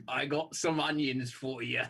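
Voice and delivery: badly faked Welsh accent; rustic mock-Welsh offer. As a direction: attempt Welsh, landing near West Country.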